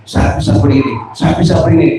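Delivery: a lightly voiced thankful son; happy, grateful child. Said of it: "Sama senang dia ngomongnya".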